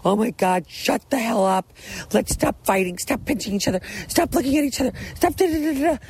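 rising exasperated yell, quickening at first; mock-fed-up mother losing patience with the kids; frazzled mom yelling at kids. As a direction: bark orders at squabbling kids for the family photo. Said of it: "I'd be like".

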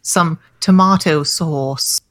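very slow, exaggerated English "sauce"; mock English accent. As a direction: lay on a fake English accent. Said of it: "That's how the English pronounce it".

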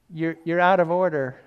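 loud, mildly mock objection; indignant churchgoer. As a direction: call out a pretend protest.

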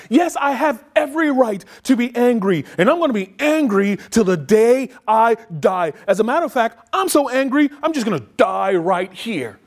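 high, petulant whine; whining like a baby. Retold or imitated. Jonah sulking back at God, whining like a baby. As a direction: whine like a spoiled child. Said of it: "he's whining like a little baby".

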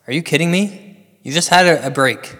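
indignant, pleading protest; exasperated. Acted. Caller protests commercial break.

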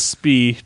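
long ee ending on "Spee", joking; mock mispronunciation. Co-host jokingly corrects the film's title, mock mispronunciation. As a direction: say "Spee" to rhyme with "see". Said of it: "Is that how you say it?".

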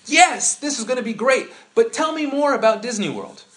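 high, loud eager gush; mock excited. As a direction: play the overeager friend, all yes. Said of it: "And you're like".

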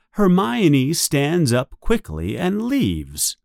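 usual speaking voice

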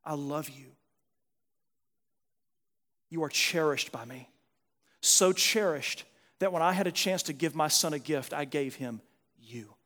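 low, hushed voice of God, tenderly; quiet, intimate words of God's love; tender divine reassurance. Acted. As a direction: speak softly and low, cherishing the listener. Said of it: "God's voice is saying".

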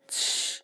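七 with a strong puff of air, voiceless; 七 breathed out hard, no voice; aspirated qi. Shown as a demonstration. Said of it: "有气无声".

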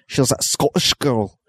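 badly faked Scottish accent. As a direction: put on a clumsy Scottish accent. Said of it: "That's a really bad accent".

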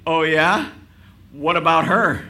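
loud jealous challenge; indignant retort. Retold or imitated. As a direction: snap back, offended.

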